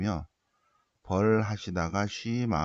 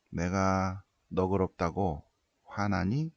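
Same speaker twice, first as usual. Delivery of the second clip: God asking gently; slower than usual. Retold or imitated. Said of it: "주님께서 사 절".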